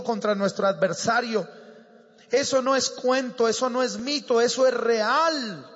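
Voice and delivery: building, emphatic sermon delivery; impassioned preaching. Real, not acted. Preacher warning the church of a daily war, building preaching. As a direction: press each warning home, building at the end.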